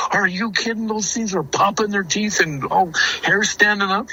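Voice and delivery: high, incredulous protest; imitating scared brother. Little brother told to run after the animals, imitated as scared disbelief. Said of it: "my little brother was scared to death".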